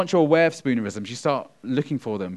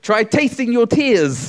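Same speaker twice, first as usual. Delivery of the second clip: loud, high, slow alliteration; tongue twister demo; 9 semitones higher, 7 dB louder, slower than usual. Shown as a demonstration. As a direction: punch each T sound. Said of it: "I want you to repeat after me".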